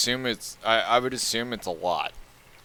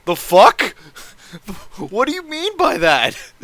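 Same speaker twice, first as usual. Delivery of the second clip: much higher, baffled mock outrage; bewildered bystander; 9 semitones higher, 5 dB louder than usual. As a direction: play a stunned passerby. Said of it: "They're like".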